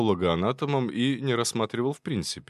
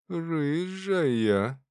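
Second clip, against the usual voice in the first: higher, drawn out dreamy question; 7 semitones higher than usual. Acted. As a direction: savour the thought. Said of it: "мечтательно протянул Терентьев".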